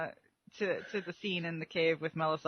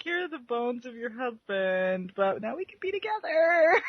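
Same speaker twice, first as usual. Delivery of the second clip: mock suitor, laughing; 4 semitones higher than usual. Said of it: "he's like".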